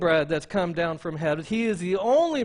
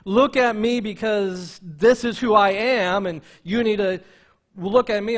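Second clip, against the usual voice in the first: boastful quote; 5 dB louder than usual. Retold or imitated. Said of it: "He wasn't saying".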